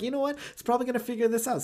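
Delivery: hammed-up clever villain plotting; mock smart Riddler. Riddler planning against Batman, fast scheming voice. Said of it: "And he was like".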